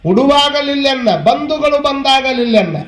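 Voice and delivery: slow, drawn-out sacred verse; measured scripture quoting; verse recitation. Acted. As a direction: recite each line slowly with long vowels.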